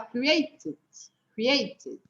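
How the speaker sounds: "created" with the first E nearly vanished; barely sounded E. Shown as a demonstration. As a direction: say "created" as if it were "cr'ated". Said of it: "deixa ele bem sumidinho".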